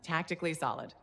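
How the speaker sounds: dry mocking echo. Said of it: "Come on, it was a mess".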